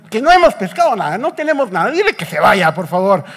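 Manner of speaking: mildly hammed-up annoyance; acted exasperation. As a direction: snap it out, fed up, then plead wearily. Peter fed up with the stranger.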